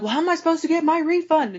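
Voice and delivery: very high, fast, indignant mock yell; imitated yelling. Customer asking the cashier about her refund, imitated fast yelling. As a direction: blurt it out like an outraged customer. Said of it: "she starts yelling at me again".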